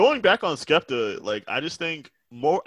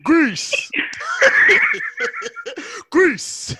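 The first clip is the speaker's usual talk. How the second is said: mock British accent; 4 dB louder than usual. Mimicking a rapper's British accent.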